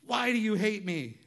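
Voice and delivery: high, loud mock-wounded husband; whiny overreaction. Husband overreacts to his wife with a high whine.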